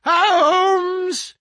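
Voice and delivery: insistent. A narrator's reading. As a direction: shout to rouse a sleeper. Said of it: "insistent tone of one who awakens a sleeper".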